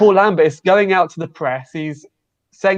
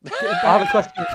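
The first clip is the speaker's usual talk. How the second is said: shouted, much higher pitch. Real, not acted. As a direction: yell it to cut through the chatter. Repeats to get a word in.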